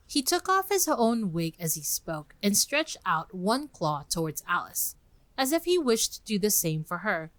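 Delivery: reading a classic tale aloud, gently acted; lively read-aloud storytelling with light character voices; story narration. A narrator's reading. Host reading Alice chapter to listeners, storytelling voice.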